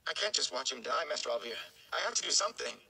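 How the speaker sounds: a lightly voiced young man, anxious and pleading; anxious young Rand. Rand insists he must act.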